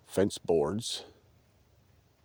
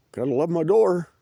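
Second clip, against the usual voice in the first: loud, high, delighted; proud exclamation; 10 semitones higher, 9 dB louder than usual. Real, not acted. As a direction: show off the door proudly. Proud exclamation about his door.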